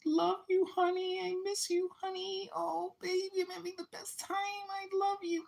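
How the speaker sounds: put-on high, sugary girlfriend voice cooing to her boyfriend; girlfriend on Skype. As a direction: coo it sweetly into the call. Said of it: "she's like".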